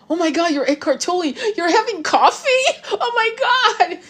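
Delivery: high, breathless gushing, mock starstruck; starstruck fan voice. A stranger gushing at Eckhart Tolle over coffee, mock starstruck squeal. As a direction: gush like a fan spotting a celebrity. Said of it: "somebody said".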